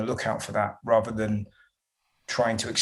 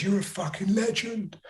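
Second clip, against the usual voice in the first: high, thin mock voice of a heckler from the crowd; a light put-on heckler voice, pitched up; heckler impression; 9 semitones higher than usual. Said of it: "I think he goes".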